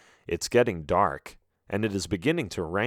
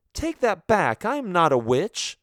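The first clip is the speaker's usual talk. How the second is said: indignant shout; 9 semitones higher than usual. Acted. Daphne denying she is a witch, high indignant shout. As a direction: push back hard on the insult. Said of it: "shout accusations at each other".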